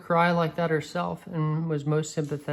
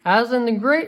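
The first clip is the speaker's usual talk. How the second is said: higher, louder proclamation; proud declaration; proud beaver; 6 semitones higher, 5 dB louder than usual. A narrator's reading. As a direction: announce him grandly as the beaver.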